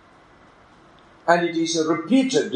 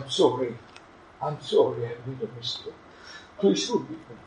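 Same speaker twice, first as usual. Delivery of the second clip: pleading wife; 4 semitones lower, 6 dB quieter, faster than usual. Retold or imitated. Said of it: "Oh, she cries".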